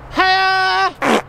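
high, loud martial arts cry; karate yell. Acted. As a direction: shout it like a kung fu kick. Karate cry while telling story.

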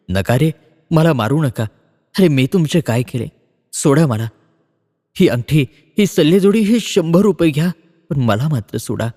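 a touch of humble begging; pleading. Acted. Bhau lightly voiced, begging the attackers to spare him. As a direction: mildly plead for your life. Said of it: "दिनवाणीपणाने त्या मांगांना ते विनवित होते".

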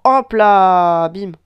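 breathy whispered hop la; whispered strike. Real, not acted. Whispering as he lands the shot. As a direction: whisper the hit. Landing a hit in game.

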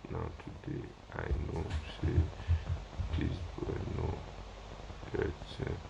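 muttered unvoiced read of a comment; reading a viewer's comment to himself, whispered; reading under breath. Real, not acted. Live host reading a comment to himself, whispered. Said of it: "This one say".

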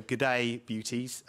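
drawn-out Australian greeting; Australian accent. Shown as a demonstration. English-born lecturer showing the audience his Australian accent. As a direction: put on a brief Australian accent. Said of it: "I can do an Australian accent for you".

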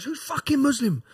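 high, slow, loud challenge; retold yell. Bursting into the canteen to challenge the Muslim inmates, slow loud yell. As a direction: call the whole canteen out. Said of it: "I'm screaming and screaming".

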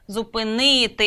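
"зупинити" with a stretched stressed ни. Shown as a demonstration. Teacher showing which syllable is stressed, "зупинити" stressed on ни. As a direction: lean on the third syllable of "зупинити". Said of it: "інший склад наголошений".

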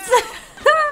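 high burst of laughter. Real, not acted. Gamer watching her Sim fight, high laugh. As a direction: let out a squealing laugh.

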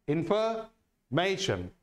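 इन्फॉर्मेशन slowly, pausing before stressed मे; stress on second-last syllable. Shown as a demonstration. Teacher repeating the answer to students, इन्फॉर्मेशन with stressed मे. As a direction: set मे apart in इन्फॉर्मेशन and stress it. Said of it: "इस पे stress कहाँ लग रहा है".

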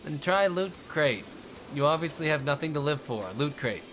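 mock commercial pitch; ad read. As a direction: sell it like a TV ad. Mock Loot Crate ad read.

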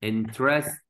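"Interest" in separate beats, stopping short of the whole word; "Interest" as a measured word fragment; syllable build-up. Shown as a demonstration. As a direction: sound out "Interest" piece by piece. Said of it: "أدي third one".

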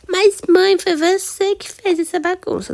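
put-on high, loud child's voice protesting to mom; a girl pouting at her mother; little daughter talking back. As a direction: play the kid who says it wasn't her fault.

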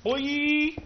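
high shouted call. Pretend. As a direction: yell it up high. Shouting boy.

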